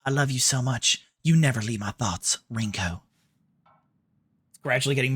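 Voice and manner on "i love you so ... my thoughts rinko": put-on feminine Southern accent. Streamer reading Rinko's love note, feminine Southern accent. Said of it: "putting on a bit more of a".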